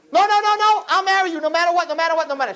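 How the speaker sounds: high-pitched mock panicked girlfriend; pleading girlfriend. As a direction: beg him not to doubt. Girl pleading with her fiance.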